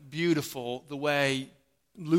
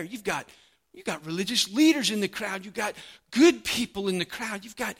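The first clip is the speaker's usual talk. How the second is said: grumbling crowd; 4 semitones higher than usual. Retold or imitated. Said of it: "The crowd would grumble".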